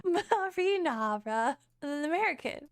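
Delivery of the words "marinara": very slow British imitation. Shown as a demonstration. Streamer copying the slowed British example, slow British accent. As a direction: stretch every syllable in British English. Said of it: "Let's slow it down".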